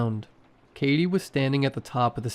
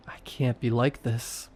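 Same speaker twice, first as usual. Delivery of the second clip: ordinary delivery, nothing marked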